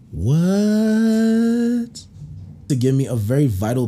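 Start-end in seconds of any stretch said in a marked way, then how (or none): 0.1-2.0 high, drawn-out shocked what; stunned disbelief, stretched out. Retold or imitated. Turning back to the boyfriend mid-act, shocked. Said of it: "I look back like".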